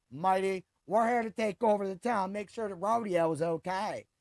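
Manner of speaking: lightly put-on Southern accent; bad Southern accent. Host playing UFC sheriff, bad Southern accent. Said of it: "That might be a bad Southern accent".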